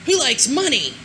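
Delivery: playful crowd call. Acted. Rhetorical crowd question.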